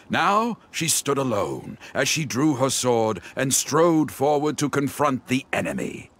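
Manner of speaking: grand, measured narrator voice reading his own tale; storybook narration. Acted. Novelist dictating his knight story aloud, in a lofty storybook voice. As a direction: narrate it like the opening of a legend.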